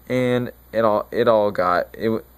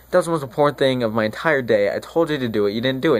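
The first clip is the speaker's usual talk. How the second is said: quick, run-on exasperated telling-off; retold scolding, rushed out; mock exasperation at a useless helper; 3 semitones higher, faster than usual. Friar scolds brother over unsent letter.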